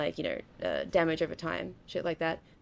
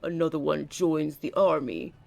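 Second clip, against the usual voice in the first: louder, slow, epic announcement; dramatic alert voice; 6 dB louder, slower than usual. Retold or imitated. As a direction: declare it like a war herald. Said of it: "it said it in a cool way".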